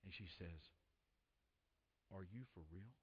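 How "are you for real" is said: hushed, low, retold disbelief; taken aback. Stunned date answers a declaration of love, in hushed disbelief. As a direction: barely voice it, very soft and low. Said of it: "she's taken back".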